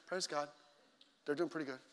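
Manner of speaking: very soft, low, unexcited praise; mock restrained. Fan barely reacting to fourteen nothing, mock restrained. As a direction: say it meekly, with no passion. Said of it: "We didn't just say".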